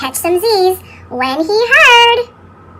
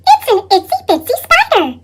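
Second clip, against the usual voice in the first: delighted squeal; 6 semitones higher than usual. Acted. Callie marvels at the spider.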